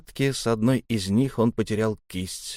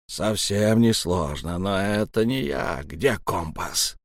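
slow menacing growl; slower than usual. Acted. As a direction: growl the question slowly. Elm threatens.

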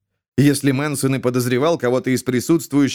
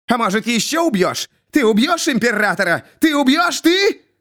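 rising mad accusation; 10 semitones higher than usual. A narrator's reading. Jester menaces the blind queen, rising to a shout. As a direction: wind up into a crazed shout.

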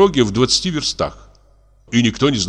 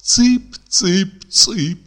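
high, thin piping call; high mocking chick call; 7 semitones higher, much slower than usual. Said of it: "тонким голосом".

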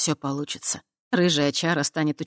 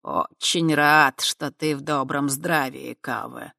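cautious; slower than usual. Acted. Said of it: "осторожно произнесли".

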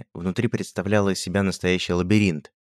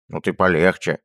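warning; 4 dB louder than usual. Acted. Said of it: "предостерёг его Анчут".

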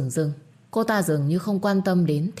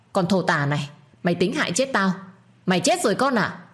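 angry shout; 3 semitones higher than usual. Acted. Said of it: "bà ba quát lớn".

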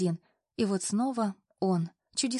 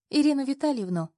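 giggled; 6 semitones higher, 3 dB louder than usual. A narrator's reading. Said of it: "хихикнула я".

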